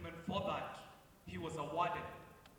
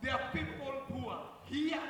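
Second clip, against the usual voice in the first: put-on Kenyan accent; 7 semitones higher than usual. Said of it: "Now I'm talking like a Kenyan".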